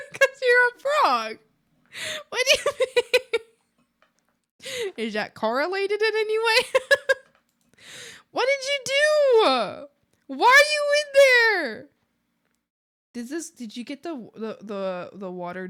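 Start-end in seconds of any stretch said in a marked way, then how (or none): 0.1-11.8 cutesy talk to frog. Real, not acted. Streamer talking to a frog on screen, high baby talk. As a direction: coo at the little frog like a pet.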